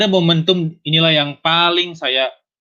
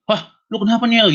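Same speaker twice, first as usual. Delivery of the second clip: alarmed friend; 8 semitones higher than usual. Retold or imitated. Voices startled friend asking what happened.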